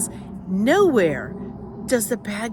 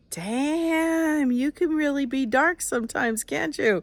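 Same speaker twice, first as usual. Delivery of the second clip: lifted, hushed self-address; half-amused, half-spooked at her own dark side; spooked at herself; 5 semitones higher, 3 dB quieter, slower than usual. Retold or imitated. Reading her own book aloud, she mutters to herself, a little spooked. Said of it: "I was like".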